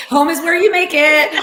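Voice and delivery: said through real laughter; laughing. Real, not acted. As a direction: laugh the words out. Laughing reply.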